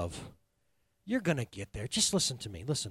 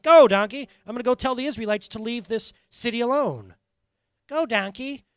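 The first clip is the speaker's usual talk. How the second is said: loud, urging shout at the donkey; a frustrated rider yelling at his donkey; impatient rider; 6 semitones higher, 7 dB louder than usual. Acted. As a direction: spur the beast on, louder. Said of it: "And Balaam's like".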